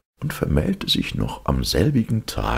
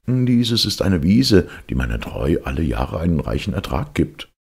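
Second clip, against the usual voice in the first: courtly marquis; 4 semitones higher than usual. Acted. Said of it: "sagte der Marquis von Carabas".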